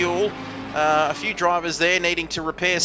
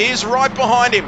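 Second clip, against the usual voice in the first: motorsport commentator; 3 semitones higher, 3 dB louder than usual. Acted. Live race call.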